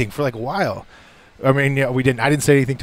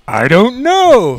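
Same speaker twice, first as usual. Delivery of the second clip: put-on sheepish teen; 9 semitones higher, 7 dB louder, much slower than usual. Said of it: "And he's like".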